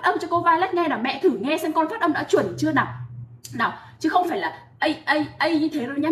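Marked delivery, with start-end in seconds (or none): 4.8-5.5 "a" with the mouth barely opened; short, lax "a, a", mouth kept shut; wrong closed-mouth version. Shown as a demonstration. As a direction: show the lazy, unopened "a". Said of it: "Mở cái khoang miệng ra nào".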